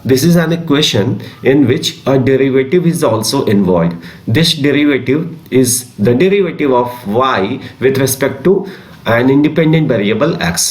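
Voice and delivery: slow, spaced-out dictation of a definition. Acted. Teacher dictating a definition to class twelve students, slow and spaced. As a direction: read it slowly so students can write.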